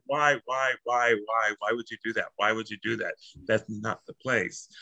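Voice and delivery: hushed, repeated disbelieving questions; mock dismay. Speaker replaying dismay at a friend's blunder, softly mock-appalled. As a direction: drop the volume as if pained by the blunder. Acts out own dismayed reply.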